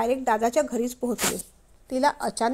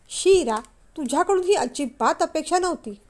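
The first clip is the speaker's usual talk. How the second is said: disgusted scolding; 3 semitones higher than usual. Acted. Husband disgusted with wife.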